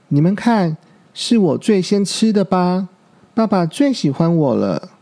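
put-on lightly smug child bragging; a little gloat in the voice; smug, showing off. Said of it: "小鹿有点洋洋得意地说". (带点洋洋得意)

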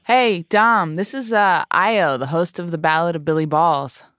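bright, upbeat phone greeting; friendly host on the phone. Real, not acted. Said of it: "Get my phone voice ready".

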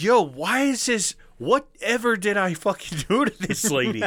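high-pitched, incredulous comic protest; mock bewilderment. Storyteller baffled by the rude waitress, high mock protest.

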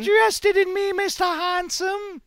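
mock snooty English charm; posh flirt.

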